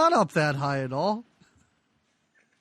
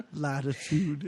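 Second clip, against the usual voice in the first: mutter through laughter; 5 semitones lower, 4 dB quieter, slower than usual. Retold or imitated. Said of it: "you just hear him mutter the word".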